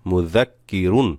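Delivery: মুযাক্কিরুন read through to a short রুন; full n ending. Shown as a demonstration. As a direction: close on the n of রুন. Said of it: "র দুই পেশ রুন". (মুযাক্কিরুন, শেষে রুন পুরো পড়ে)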